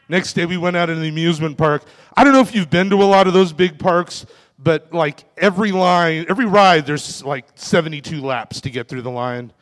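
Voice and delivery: usual speaking voice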